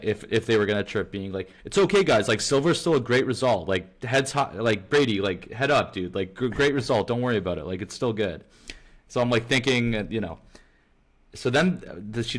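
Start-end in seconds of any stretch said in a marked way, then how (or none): 1.6-8.4 pat the rival on the head, cheekily; mock consoling. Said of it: "So I landed on saying".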